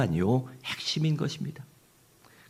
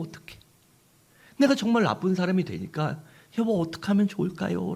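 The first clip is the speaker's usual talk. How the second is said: tearful confession; 6 semitones higher than usual. Acted. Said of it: "남편에게 울며 얘기합니다".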